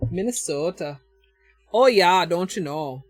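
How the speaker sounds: a playful hint of Minnesota accent. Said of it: "my Minnesota accent".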